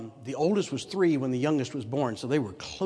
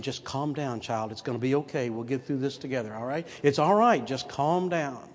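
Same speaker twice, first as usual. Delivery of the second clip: soothing parent; 2 semitones lower than usual. Retold or imitated.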